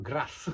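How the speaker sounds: "grass" with a rolled r. Shown as a demonstration. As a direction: roll the r in "grass", short a. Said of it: "sometimes they even roll the".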